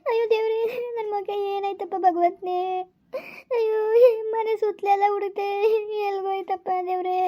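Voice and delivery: sobbing mother's lament, slowing down; crying mother calling on God; wailing cry. Acted. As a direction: wail out to God for the lost son. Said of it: "ಇದಕ್ಕೆ ಹಿಂಗ್ ಅಳ್ತಾ ಕುಂತಿದ್ದೆ?".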